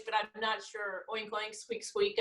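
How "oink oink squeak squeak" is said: soft little squeak noises; playful mock animal squeaks; guinea pig noise. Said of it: "I make a guinea pig noise".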